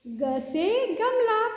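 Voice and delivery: slow, drawn-out recital; teacher reciting slowly for little kids; slow demo. Shown as a demonstration. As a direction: spell it out slowly for children. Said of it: "teacher demonstrating the letter".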